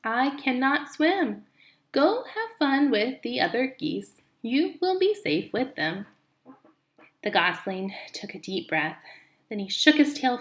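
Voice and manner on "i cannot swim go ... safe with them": slow, even robot reply. Acted. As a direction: gently send him off, robot-calm. Robot Roz answers.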